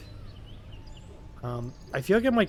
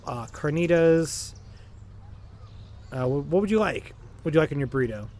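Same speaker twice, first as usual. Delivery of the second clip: burrito shop worker; 2 semitones higher, 5 dB louder than usual. Pretend. Plays burrito shop worker serving Tom.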